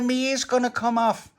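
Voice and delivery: high acted wail; pained panic. Tony to Pauline while being pulled, pained panic. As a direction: cry out a panicked warning.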